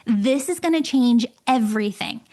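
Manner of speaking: polished, emphatic ad delivery; scripted podcast promo voice; promo read. Real, not acted. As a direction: pitch it to listeners with lively, measured emphasis. Reads a promo for her membership.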